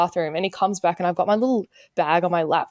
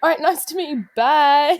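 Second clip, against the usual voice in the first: fake cheerful goodbye; 5 semitones higher than usual. Hasty fake-polite exit.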